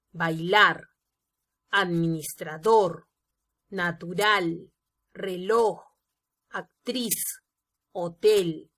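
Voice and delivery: "bailar, natural, hotel" word by word, leaning on LAR, RAL, TEL; stress on last syllable. Shown as a demonstration. Teacher lists agudas for students, stressing each last syllable, as in "bailar". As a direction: lengthen and press the final syllable, as in "mamá" and "capitán". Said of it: "tienen el énfasis en la última".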